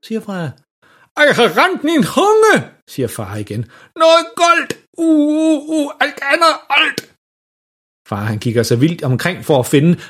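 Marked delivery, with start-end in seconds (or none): 1.2-2.7 slow, high garbled wail; brændt tunge. A narrator's reading. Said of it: "fordi han har brændt sin tunge". 3.9-7.1 high, panicked garbled cries; brændt tunge. A narrator's reading. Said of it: "fordi han har brændt sin tunge".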